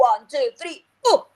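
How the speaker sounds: count, then a big round "oh"; dramatized oh. Shown as a demonstration. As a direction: open the umbrella with a long "oh". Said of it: "open it and go".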